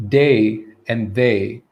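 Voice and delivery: "day" and "they" said slowly and distinctly; slow, careful contrast of "day" with "they"; contrasted sounds. Shown as a demonstration. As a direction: draw out "day" and "they" to show two different sounds. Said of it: "How do we distinguish these two sounds?".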